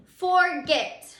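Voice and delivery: Forget said with a strong, loud second syllable, for-GET; stress on the last syllable. Shown as a demonstration. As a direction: say Forget deliberately, leaning on "get". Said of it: "say it with me".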